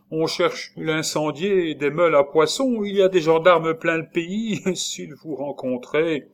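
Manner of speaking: high, loud agitation easing at the end; terrified warning. A narrator's reading. Nurse warning of gendarmes everywhere, high terrified warning. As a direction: warn urgently, slowing on the last thought. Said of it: "saisie d'une autre terreur".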